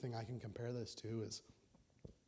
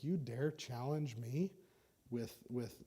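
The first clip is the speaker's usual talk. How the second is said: ticked off Goliath; 4 dB louder, slower than usual. Acted. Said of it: "really ticked off".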